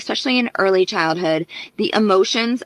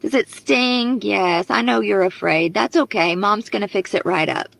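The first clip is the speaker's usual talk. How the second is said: tender mother; 3 semitones higher than usual. Retold or imitated. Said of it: "An emotionally attuned mother would act like this".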